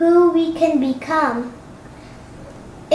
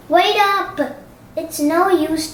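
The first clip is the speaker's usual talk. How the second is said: plain reading voice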